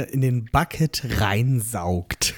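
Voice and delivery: slow, relishing each word; savoring the phrase. Retold or imitated. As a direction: savour the words slowly. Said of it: "klingt auch sehr schön".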